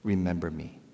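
pleading quietly from the cross; hushed plea. Retold or imitated. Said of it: "this thief on a cross that said".

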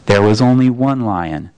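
a vast hidden voice, patient; Aslan's voice. Acted. The Voice corrects Shasta.

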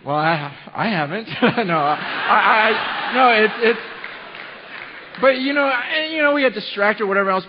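loud, high, laughing stammer; flustered laughing. Real, not acted. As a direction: caught off guard, laugh it out. Embarrassed laughing loud stumble.

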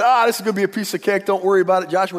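brash, overconfident brush-off; cocky spies. Retold or imitated. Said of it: "He got cocky".

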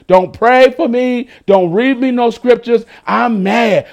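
a hint of a pouting, offended worshipper; mock sulky anger. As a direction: play the sulking believer. Mimicking an angry churchgoer.

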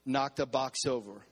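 firm, emphatic call to repeat; resolute, punchier delivery for the congregation; with conviction. Shown as a demonstration. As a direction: say it like you mean it. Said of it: "say it with some conviction".

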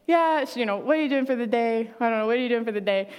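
offhand, fast, tossed-away question; casual mention. Retold or imitated. Talking to Haley on the phone, acting offhand and casual. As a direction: slip it in casually so the kids won't notice. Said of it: "I'll just kinda, sorta mention".

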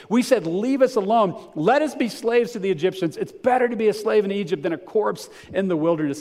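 high, loud complaining voice; whiny Israelites. Acted. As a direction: whine it out like grumbling people. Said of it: "I wanna read this kind of in a whiny voice, but it'd be annoying".

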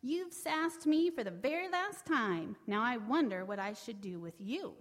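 taunting gloat. Acted. Brer Fox taunts his captive.

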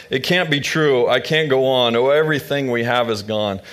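understated grief in the rhyme; mild weeping Naomi. Acted. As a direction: read Naomi's despair with a hint of tears. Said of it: "Naomi wept".

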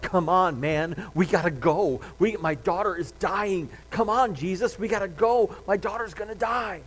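a touch of fidgety urgency, lightly voiced; impatient Jairus. Jairus urges Jesus to hurry to his dying daughter, mildly impatient. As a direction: hurry him along, mildly anxious. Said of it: "bouncing on one foot to the other".

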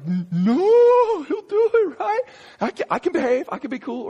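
very high, loud wail of protest easing into pleading; panicked lizard. Acted. Lizard threatened by the angel's sword, panicked high pleading. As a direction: squeal in mock terror, then bargain.

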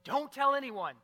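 loud, high, forceful charge; stern, emphatic warning. Acted. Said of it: "charged him emphatically".

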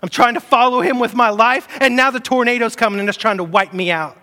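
mildly pleading inner voice; voicing a worried believer. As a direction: speak as the churchgoer who feels overwhelmed. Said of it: "where you feel like".

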